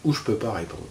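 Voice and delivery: hushed, gentle asking; soft inner question. Shown as a demonstration. Teacher to students, asking the inner voice: hushed and gentle. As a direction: ask your inner voice softly, almost to yourself. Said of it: "vous lui faites, euh, poser la question".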